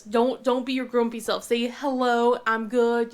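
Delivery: firm mom. Retold or imitated. Mom instructing grumpy son.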